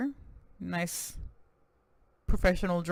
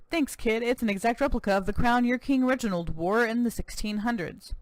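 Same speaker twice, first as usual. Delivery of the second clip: lightly voiced American cowboy governor, proud; a touch of boastful Texan governor; 5 semitones higher than usual.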